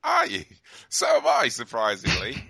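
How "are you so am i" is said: high, wailing ghost voice; ghostly wail. Pretend. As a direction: moan it like a spirit. Answering a ghost from the netherworld.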